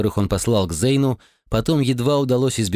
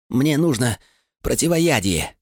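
strained; 4 semitones higher than usual. Acted. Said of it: "выдавил он".

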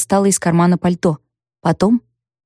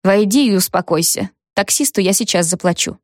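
calm, even voice. Acted. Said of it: "Ровным, спокойным голосом".

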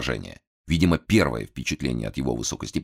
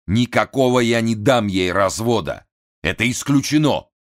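высокий взвинченный голос хана; капризный напуганный вельможа; нервный хан; 6 semitones higher, 5 dB louder than usual. A narrator's reading. (взвинченный голос хана)

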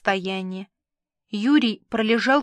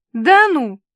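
holding back laughter; 6 semitones higher, 9 dB louder than usual. Acted. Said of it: "сдерживая хохот".

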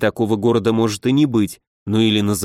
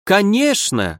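joyful; 8 semitones higher, slower than usual. Acted. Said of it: "радостно подтвердил барон".

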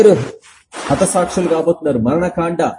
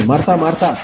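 gentle warning, falling. Retold or imitated. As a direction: call Martha, Martha again, letting the tune fall. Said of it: "రెండుసార్లు హెచ్చరిస్తుంది". (Martha, Martha అని కిందికి దిగే స్వరంతో హెచ్చరిక)

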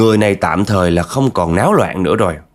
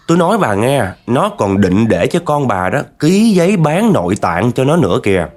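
higher, slow ominous warning; grave fortune teller warning; 5 semitones higher than usual. Retold or imitated. Fortune teller warning the mother, slow and grave. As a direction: spell out the danger slowly and gravely.

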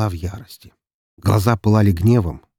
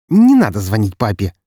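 gritted teeth; 2 semitones higher, 8 dB louder than usual. Acted. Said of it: "едва ли не скрипя зубами".

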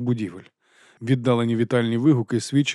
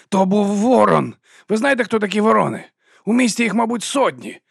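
angry berating; 10 semitones higher, 4 dB louder than usual. A narrator's reading. Vons scolding Vimes over the raven, high loud anger. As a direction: hammer each word at him.

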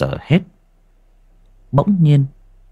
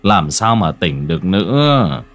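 consoling; 5 semitones lower than usual. Acted. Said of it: "Ông Vương an ủi vợ".

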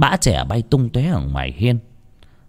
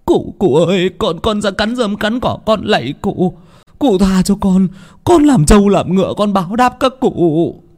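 much higher, pleading, frightened voice; begging in terror; 10 semitones higher, 4 dB louder than usual. Acted. Servant boy begging the master to stop beating him, terrified pleading. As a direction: beg for mercy as blows rain down. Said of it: "cả tiếng van xin".

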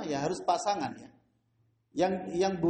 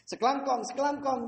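squeaky rat in Madurese; 6 semitones higher than usual. Retold or imitated. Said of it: "Kalau Maduranya gimana?".

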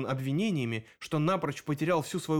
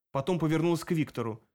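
ordinary delivery

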